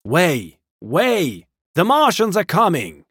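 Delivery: high, loud cries of warning; refugees' refrain. A narrator's reading. Fleeing crowd warning everyone of Martians, crying out. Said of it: "Through it all ran a refrain".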